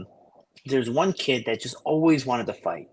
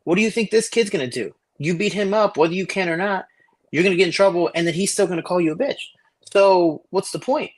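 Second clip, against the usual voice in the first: higher, exasperated talking-to; lecturing mentor; 5 semitones higher than usual. Retold or imitated. Mentor scolding Igor about fighting, higher exasperated lecture. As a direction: push the point home to the kid. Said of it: "I was like".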